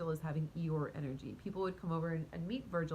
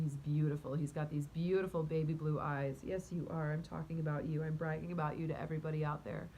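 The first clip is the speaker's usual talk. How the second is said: cooing to a pet; 3 semitones lower than usual. Real, not acted. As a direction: croon praise at the cat. Cooing to her cat.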